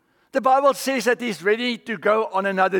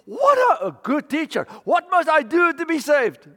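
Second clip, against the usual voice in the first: high, breathless rush to the teacher; young man begging the Lord for salvation, high and eager; eager plea; 6 semitones higher than usual. Acted. Rich young man kneels before Jesus, pleading eagerly.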